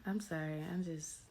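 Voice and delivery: talking through a mouthful of toothpaste; while brushing teeth. Real, not acted. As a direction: mouth full of toothpaste foam. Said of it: "Hold on, let me spit".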